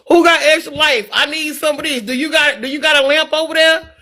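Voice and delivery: mock eager asking round for favors; Farmville gang chatter. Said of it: "That's how Facebook used to be back then".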